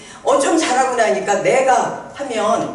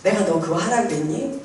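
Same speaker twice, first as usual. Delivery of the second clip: a softer, tender divine question; gentle, not rebuking; 3 semitones lower, 4 dB quieter than usual. Retold or imitated. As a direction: ask it kindly, without reproach. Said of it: "막 책망하시지도 않고 따뜻하게". (책망 없이 따뜻하게 묻는 목소리)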